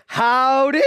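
loud, high, rising howdy; hearty call-out. Shown as a demonstration. Preacher leading the congregation to greet together, hearty call-out. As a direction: call it out for a crowd to echo. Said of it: "say together, say".

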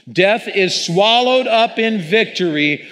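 "Death is swallowed up in victory" proclaimed high, loud and slow; strong preacher voice. Real, not acted. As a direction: proclaim it like a fist in the air, defiant. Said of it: "let's read it out loud and loud".

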